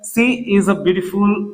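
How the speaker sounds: She is a beautiful read out very slowly; slow dictation. Shown as a demonstration. Teacher reading an example sentence to students, very slowly. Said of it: "यहाँ पे मैंने दिया है".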